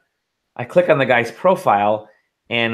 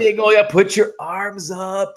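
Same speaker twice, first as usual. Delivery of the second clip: talking through a yawn; stretching into a yawn as he speaks; mid-yawn; 6 semitones higher than usual. Real, not acted. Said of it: "I'm trying".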